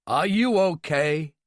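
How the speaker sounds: slow, worried question; anxious. A narrator's reading. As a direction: ask it anxiously, taking your time. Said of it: "he said anxiously".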